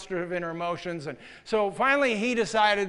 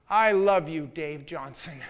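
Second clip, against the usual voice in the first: earnest declaration; 4 semitones lower, slower than usual. Retold or imitated. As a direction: say it to his face, meaning it. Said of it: "kept on repeating".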